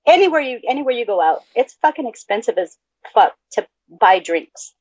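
blocked nose, stuffy speech; congested. Real, not acted. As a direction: talk through a stuffed-up nose. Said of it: "I'm so congested".

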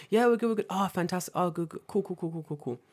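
lightly hammed-up polite filler; mock small talk. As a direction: babble awkward niceties, imitating the meeting. Acted small talk in meeting.

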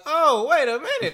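loud, high-pitched startled reaction; retold alarm. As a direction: act out shock at a gun coming out. Acts startled reaction to the gun.

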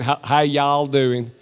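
half-hearted American accent attempt. Shown as a demonstration. British preacher tries greeting Americans, half-hearted American accent. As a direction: try a little American greeting in an English voice. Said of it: "as far as I'm gonna get with my American accent".

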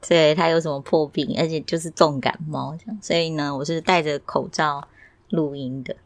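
muffled speech behind a mask; talking through a surgical mask; through a face mask. Real, not acted. (戴着口罩说话)

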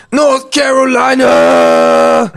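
slow, loud drawn-out shout; hype shout. Retold or imitated. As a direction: bellow it like a hype man. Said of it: "To which P D Pablo said".

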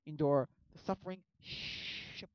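a squeaky, whiny comeback; mock the father as a hypocrite; bratty kid. Young Wonka talks back to his dentist dad, whiny.

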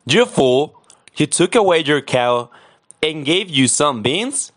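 mother scolds Jack for trading the cow, angrily; angry mother. Acted. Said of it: "She said".

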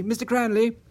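high, hopeful question; excited rising-pitch query; enthusiastic. A narrator's reading. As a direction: eagerly check who is on the line. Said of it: "Martin responded enthusiastically".

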